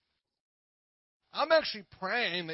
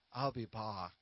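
lightly imitated Hispanic accent, lower pitch; 6 semitones lower, 4 dB quieter, slower than usual. Husband quotes his wife for a joke, light Hispanic accent. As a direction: put on a hint of your wife's Hispanic accent. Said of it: "My wife has a great Hispanic accent".

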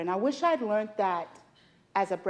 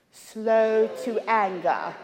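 drawn-out "Slow to anger" in a heavy accent; slow, accented call for repetition; speaker's own accent, exaggerated; 4 dB louder, slower than usual. Shown as a demonstration. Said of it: "Now say it with my accent".

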